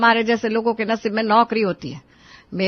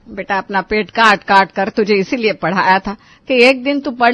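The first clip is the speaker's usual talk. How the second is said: worried mother. Acted. Mother pleads with her son to take a job, a touch of sorrow.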